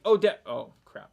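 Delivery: sudden panicked yelp, jumping high and loud; toddler caught short. Retold or imitated. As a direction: mimic a startled toddler who just realised. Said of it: "it's like".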